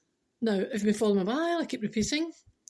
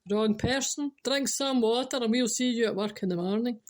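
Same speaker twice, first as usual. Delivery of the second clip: mock boss; 3 dB louder than usual. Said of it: "Can you imagine?".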